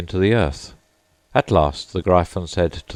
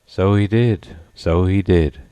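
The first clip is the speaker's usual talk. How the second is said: sighing; 3 semitones higher, 3 dB louder than usual. A narrator's reading. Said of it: "sighing in his turn".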